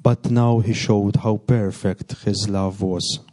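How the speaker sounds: measured, solemn scripture reading; reading the gospel at Mass, measured and solemn. Acted. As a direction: proclaim the text clearly to the congregation. Priest reads the gospel aloud.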